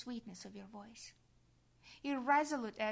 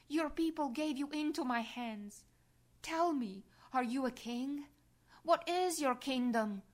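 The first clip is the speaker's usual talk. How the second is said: loud, raised interrogation; stern questioning; 4 semitones higher, 4 dB louder than usual. Acted. Pilate grilling Jesus, loud and stern. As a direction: press the prisoner with hard questions. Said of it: "Pilate questioning Jesus".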